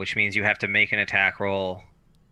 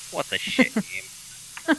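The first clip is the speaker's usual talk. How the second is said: exasperated rant; 8 semitones higher, much slower than usual. Real, not acted. GM ranting at the bestiary.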